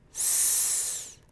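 soft, long "Sss" blown through the teeth; tongue behind bottom teeth, blow a steady sss; hissed s sound. Shown as a demonstration. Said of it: "gently blow through them".

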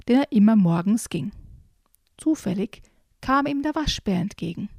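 put-on lively storybook reading for children; reading aloud. Presenter reads a children's book to listeners, lively storybook voice. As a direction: read it like a bedtime story with voices.

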